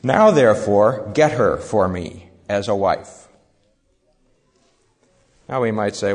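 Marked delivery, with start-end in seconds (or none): 0.0-3.3 strong-willed demand. Acted. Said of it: "we can see in the way he says it".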